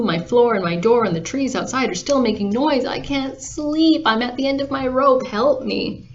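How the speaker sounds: sleepless, exasperated whine; desperate complaint. Acted. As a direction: plead like someone worn out by noise. Farmer begs for help, sleepless.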